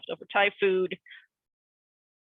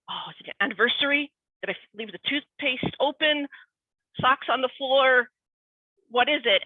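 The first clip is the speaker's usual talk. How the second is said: anxious guessing; 5 semitones higher than usual. Retold or imitated. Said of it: "And you're like".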